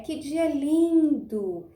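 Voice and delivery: drawn-out exclamation of admiration; exclamação admirada. Shown as a demonstration. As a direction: exclaim it slowly, as a teacher's example. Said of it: "eu estou exclamando". (exclamação de admiração, bem alongada)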